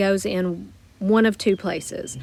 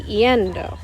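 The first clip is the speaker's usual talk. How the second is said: "yendo" stressed on its first syllable, YEN. Shown as a demonstration. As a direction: lean on the E in "yendo". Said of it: "I still need the emphasis on that E".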